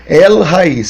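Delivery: "El Raiz" slowly, with "El" and "Raiz" set apart; syllable-by-syllable reading. Shown as a demonstration. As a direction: present "El Raiz" as the reversed name, deliberately. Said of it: "O nome vai ficar". ("El Raiz" lido devagar, por sílabas)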